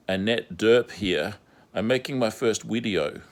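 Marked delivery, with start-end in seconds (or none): 1.7-3.2 imitating a Scandinavian woman's accent. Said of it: "with her Scandinavian accent".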